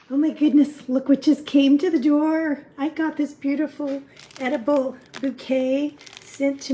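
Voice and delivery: thrilled at a surprise at the door; delighted surprise. Real, not acted. Sees friends' gift at the door, delighted surprise.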